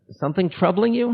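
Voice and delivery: a hint of a high, gentle guru voice. Guru asking a sulking disciple, lightly voiced gentle question. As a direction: lightly voice the teacher's kind question. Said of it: "he looks at me and says".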